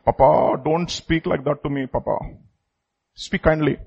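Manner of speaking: lightly voiced child, soft and low; a quiet, mild plea to a parent; pleading child. Child asking papa to speak kindly, mildly pleading. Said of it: "you raise our voice in, in my own home".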